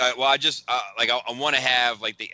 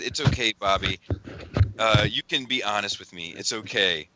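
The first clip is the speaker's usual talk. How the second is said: lower, soothing imitation of a friend; mock reassurance; 3 semitones lower than usual. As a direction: read it like gently consoling someone. Reading friend's soothing, teasing messages.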